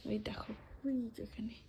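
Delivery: hushed whisper so mum stays asleep; whisper, pointing out sleeping mum. Real, not acted. Mother asleep nearby.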